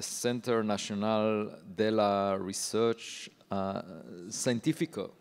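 a careful French accent on the institute's name; a hesitant, self-conscious French accent; French pronunciation. Real, not acted. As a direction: say Centre National de la Recherche Scientifique the French way, slowly. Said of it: "my French is not as good as my mother's".

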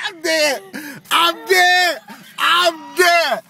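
laughing. Real, not acted. Dying of laughter at clip.

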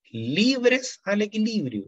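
libres drawn out slowly and high; stress on libres. Shown as a demonstration. Teacher to class, stressing libres slowly and high. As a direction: lean hard on libres, stretching it. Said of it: "¿Por qué recalco la palabra libres?".

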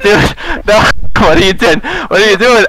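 high-pitched disbelief, half laughing; panicked plea played for laughs; alarmed protest. Driver pleading with the animal running at the car, alarmed.

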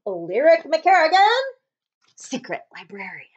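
proclaim, then drop to a hush; announcer to hush. Acted. Title again, fading.

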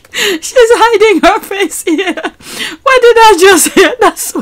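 high, slow, amazed; what did I just hear, in disbelief; incredulous, slowly drawn out; stunned. Real, not acted. Laughing disbelief reading comments.

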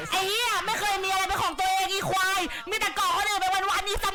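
furious cursing rant; rage-filled insult tirade; angry shouting. Real, not acted. Cursing opponent in game chat.

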